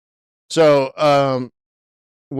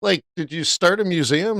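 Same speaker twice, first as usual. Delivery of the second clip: higher voice with a laugh, amazed; laughing disbelief; 7 semitones higher than usual. Retold or imitated. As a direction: tease him, half laughing and stunned. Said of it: "I'm like".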